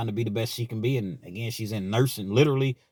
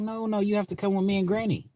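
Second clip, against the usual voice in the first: imitating insistent daughter; 11 semitones higher than usual. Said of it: "She's like".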